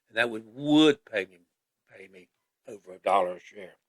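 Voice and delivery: talking with gum in mouth; chewing gum. Real, not acted. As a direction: chew gum while you speak. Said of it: "Trying to talk with chewing gum in my mouth".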